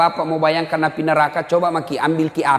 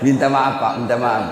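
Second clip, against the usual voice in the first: laughing apology; 4 semitones lower than usual. Real, not acted. Preacher laughing as he apologises to the smokers. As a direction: apologise through real laughter.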